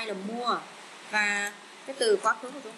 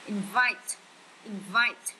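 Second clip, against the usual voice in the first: inVITE, second syllable stressed each time; 3 dB louder, much slower than usual. Shown as a demonstration. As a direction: push the VITE in Invite. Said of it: "nhấn âm hai". (nhấn âm hai: inVITE)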